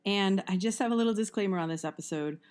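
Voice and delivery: hoarse, strained voice from an allergy attack; lost voice. Real, not acted. Podcast host warning listeners about her lost voice, hoarse. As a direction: push the words out through a nearly gone voice. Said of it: "I had completely lost my voice".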